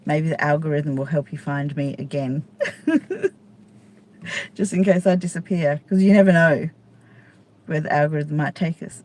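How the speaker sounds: usual speaking voice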